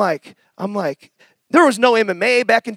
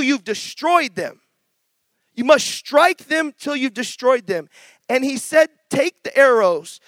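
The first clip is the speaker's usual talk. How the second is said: scripture reading. Acted. Reads scripture slowly.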